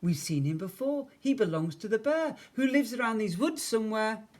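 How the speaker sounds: put-on high, excited little-boy voice; amazed child. A narrator's reading. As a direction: marvel at it in a high voice. Eddie spots the giant teddy.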